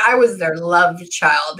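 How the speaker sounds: slow quote of the cat; lightly drawn-out cat voice; long drawn out. Retold or imitated. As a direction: imitate the cat, unhurried and stretched.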